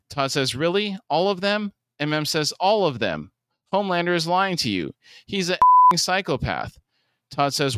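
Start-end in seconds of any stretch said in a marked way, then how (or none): 0.5-1.7 high-pitched doubting question; skeptical challenge. Acted. Todd challenged that they're lying, skeptical. 2.6-3.3 emphatic falling answer; firm confirmation. Acted. Answering Todd's doubt about the lying, firm. 3.7-6.8 raised-pitch, exasperated warning; heated insistence. Acted. Father warning Todd about Homelander, heated insistence.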